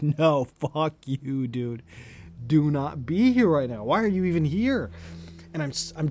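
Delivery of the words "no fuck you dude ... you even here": louder, exasperated retold protest; mock telling-off. Telling off the rat creeping toward him, mock exasperation.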